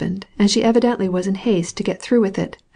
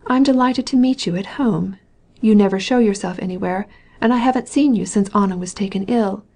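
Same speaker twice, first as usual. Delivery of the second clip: affected surprise. Acted. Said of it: "affecting surprise".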